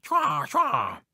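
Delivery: high, loud imitated raven call; harsh bird cry done by voice; raven caw. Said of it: "he heard this noise".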